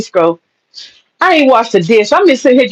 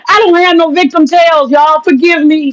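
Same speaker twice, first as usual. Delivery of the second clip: higher pleading forgive me; mock plea; 5 semitones higher than usual. To her viewers, a mock plea for forgiveness. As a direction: beg forgiveness with a hammed-up whine.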